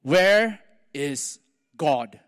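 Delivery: slow, low, looming question; big man's deep slow voice, weighing each word; deep-voiced pastor. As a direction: loom over the boy, slow and deep. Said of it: "a big man with a deep voice".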